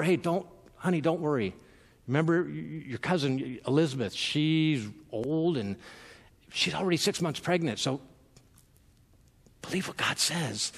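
softly voiced, like an angel leaning in to a frightened girl; gentle hushed reassurance. Gabriel gently reassuring Mary, softly and tenderly. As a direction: hush it down and comfort her. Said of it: "I can almost see Gabriel whispering to her".

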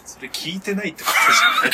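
fast, loud teasing comeback; quick loud tsukkomi; shouted retort. Real, not acted. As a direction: fire it back as a playful jab. Teasing retort to odd praise.

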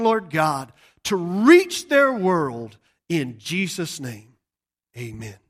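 slow, earnest pastoral prayer; closing prayer. Acted. Pastor prays over his congregation, slow and earnest. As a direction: pray over the people, drawing it out.

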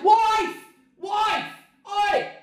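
high-pitched yell across a distance; calling out. Retold or imitated. Husband calls his wife in the house, yelling. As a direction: holler to get someone's attention.

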